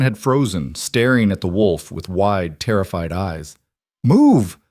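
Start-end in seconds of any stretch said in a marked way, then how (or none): 4.0-4.6 strained shout through pain; choked out. Acted. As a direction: force it out while hurt. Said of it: "Elira choked out".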